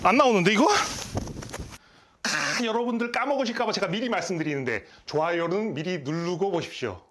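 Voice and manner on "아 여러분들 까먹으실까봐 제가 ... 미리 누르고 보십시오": soft, half-voiced reminder; quiet aside. Real, not acted. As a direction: drop the voice for a quick aside. Aside to viewers.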